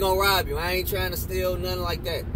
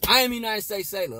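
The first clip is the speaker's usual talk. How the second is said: hard, tough, higher and proud; tough as hell; 5 semitones higher than usual. Shown as a demonstration. Recruit reciting the creed, tough as hell. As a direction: bark it out like a tough sailor. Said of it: "like, tough as hell".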